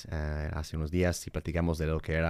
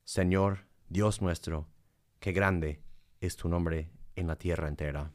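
solemn, reverent psalm reading; 2 semitones higher than usual. Acted. Reads a psalm.

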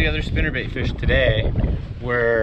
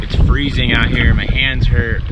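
loud voice against the wind; shouting over wind; 6 dB louder than usual. Real, not acted. On the windy lake, freezing.

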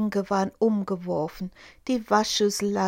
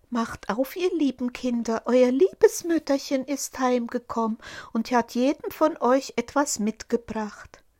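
a touch higher, coaxing fake mother; sweet disguised wolf; 4 semitones higher than usual. Wolf pretends to be mother a third time, coaxing. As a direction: coax the kids gently as fake mother.

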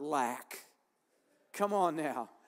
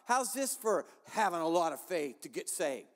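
retold prayer. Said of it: "All I did was said".

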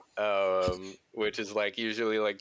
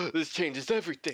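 mock awestruck scientist; 6 semitones higher than usual. Archaeologist's gasped discovery.

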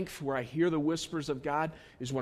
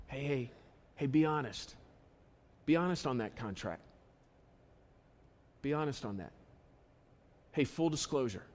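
soft, gentle prompting with long pauses; quiet inner voice, softly urging; God's little nudge; 3 semitones lower, 8 dB quieter than usual. Acted. God nudging a worker over a contract, soft voice. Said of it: "When you hear that little".

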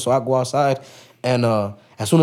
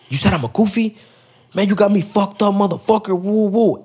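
higher-pitched mock indignation; retold angry challenge; 6 semitones higher than usual. Drunk guest confronts him over being called goofy, mock angry. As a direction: imitate a drunk guy picking a fight.

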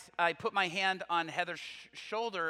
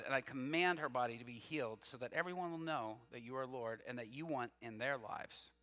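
retold prayer; 4 semitones lower, 6 dB quieter than usual. Re-enacts praying over sick classmate.

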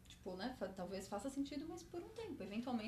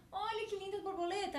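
high, delighted little cartoon heart; little heart character; 10 semitones higher than usual. Heart shows its little friend a butterfly, high-pitched wonder. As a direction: marvel in a small high-pitched voice. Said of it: "Tem um coraçãozinho olhando".

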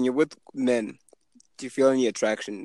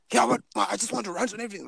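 high, fast whiny voice; whiny stranger; 8 semitones higher, faster than usual. Retold or imitated. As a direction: whine like a needy stranger. Imitating stranger wanting to rant.

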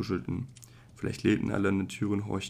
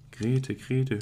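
frantic mother calling her daughter; mother's shout; 5 semitones higher than usual. A narrator's reading. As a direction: call Grete through the flat. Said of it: "schrie sie dann".

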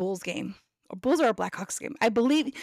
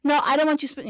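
higher, louder mom voice refusing; a mother waving off the offer; mom protesting; 5 semitones higher, 3 dB louder than usual. Retold or imitated. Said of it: "And she's like".

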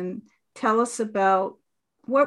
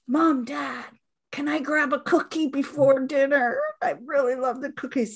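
put-on higher, lightly whiny kids' voice; pleading kids; 4 semitones higher than usual. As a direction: ask like a grown kid begging for a cookie. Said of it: "they go".

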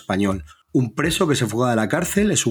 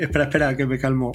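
gasping for air; faster than usual. Real, not acted. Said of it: "respira, respira".

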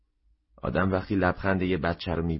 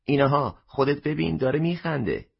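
surprised cry; 6 semitones higher than usual. A narrator's reading. Customer exclaims to the shopkeeper in surprise. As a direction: cry out in amazement, pointing at the baby. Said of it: "با تعجب فریاد زد".

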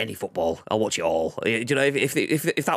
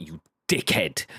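slow, cold "You dickhead" with weight on "dickhead"; venomous; 5 semitones lower, slower than usual. Shown as a demonstration. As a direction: spit "You dickhead" slowly as a real insult. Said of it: "there's venom and there's non-venom".

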